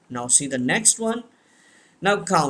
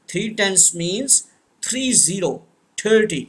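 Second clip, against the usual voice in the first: slow model for repeating; 2 semitones higher than usual. Shown as a demonstration. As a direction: say it slowly so the class can repeat it. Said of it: "repeat after me". (बच्चों के दोहराने के लिए धीमे, साफ़ बोलें)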